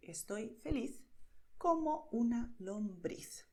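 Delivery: Estoy feliz como una lombriz said as a clear Spanish demo; Estoy feliz como una lombriz in a light, rhythmic rhyme. Shown as a demonstration. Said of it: "Just like this".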